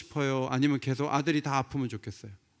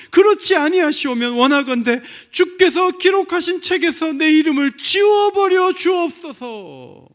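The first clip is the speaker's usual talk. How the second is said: 절박한 기도; 10 semitones higher, 10 dB louder than usual. Acted. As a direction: cry out to God as Moses, pleading. Acts out Moses' desperate prayer. (부르짖으며 점점 고조되는 간절한 기도)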